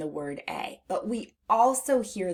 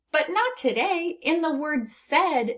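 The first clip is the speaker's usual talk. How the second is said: playful; 10 semitones higher than usual. Acted. Playful teacher twist.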